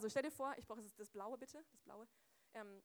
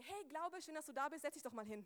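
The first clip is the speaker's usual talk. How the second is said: friendly welcome; 3 semitones higher than usual. Acted. Acts greeting faith at home.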